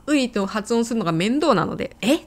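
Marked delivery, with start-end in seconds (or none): 2.0-2.2 ウイ collapsed into a single 「え？」; contracted ウイ. Shown as a demonstration. Teacher showing lazy shortcut for ウイ, contracted 「え？」. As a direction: say 「え？」 as one short vowel in place of ウイ. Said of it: "と発音しちゃいます".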